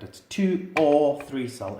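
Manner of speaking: slow, leaning on "or" in two or three; stress on or. Shown as a demonstration. Stressing "or" to tell viewers which batteries fit. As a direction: make "or" the key word, slowly. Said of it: "emphasis on the word or".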